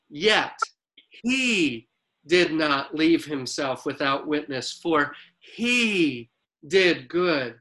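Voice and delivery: scripture read with deliberate emphasis, slowing to the close; emphasized reading. Shown as a demonstration. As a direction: lean on "living" and "he" as you read the scripture. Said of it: "I'm gonna verbally emphasize their emphasis".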